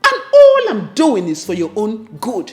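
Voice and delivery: mother defending her meddling; loud insistence. Acted. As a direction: insist you mean well.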